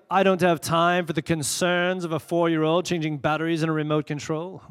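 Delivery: lightly put-on British accent; mock British dismissal. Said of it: "why I had to go British on you".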